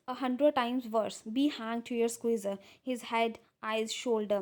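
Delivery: reads the English lines out slowly and carefully; deliberate read-aloud of a script; measured reading of a classic play. Acted. Slow reading of play text.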